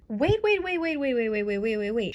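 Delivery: startled realisation. Real, not acted. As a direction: cut in urgently with a run of waits. Reacting to a sudden plot realisation.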